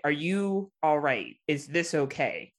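slow, gentle check-in; concerned. Retold or imitated. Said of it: "but I'm like".

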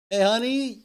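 startled spouse. Retold or imitated. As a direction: call out in mock alarm. Imagined spouse quote.

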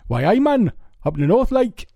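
badly faked northern English accent; Newcastle accent. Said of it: "I'm terrible at doing it".

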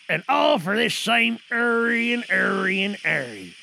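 a lightly voiced old sea dog plotting; muttering pirate, half menace; lightly played pirate in a radio drama; pirate sailor. Actors perform pirate scene.

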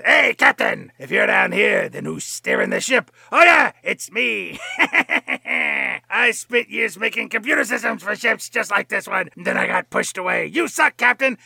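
high, loud hammed-up villain voice. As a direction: ham up a gloating movie villain, high and loud. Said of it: "he says".

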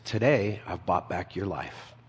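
softly spoken mock whisper; retold whisper. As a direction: say it low and soft, as if into an ear. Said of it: "whispers in his ear".

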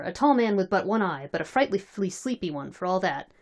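measured, articulate read-aloud narration; story narration. Acted. Reader telling friends of drunken Cossacks, story narration. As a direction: narrate the tale in a steady reading voice.

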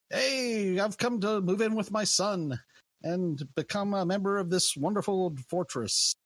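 put-on light Scottish accent for a cheery dwarf migrant; a hint of a stereotypical Scottish dwarf accent. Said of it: "they're in a stereotypical Scottish accent".

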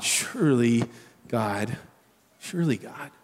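soft, low, weary plea; tired and honest with God; honest believer sighing to God, softly spent; exasperated honesty. Shown as a demonstration. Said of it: "You hear it?".

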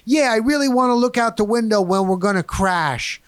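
mock woman's voice, high and carrying. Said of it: "she said it again".

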